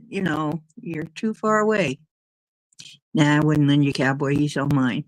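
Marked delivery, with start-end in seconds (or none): 3.1-5.0 teasing possessive. Real, not acted. Takes the offer back.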